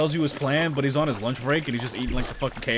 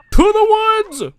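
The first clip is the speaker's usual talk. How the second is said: high, slow, loud proclamation; loud slow battle cry; dramatic call; 13 dB louder, much slower than usual. Pretend. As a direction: announce it like a hero setting off. Calling out dramatically.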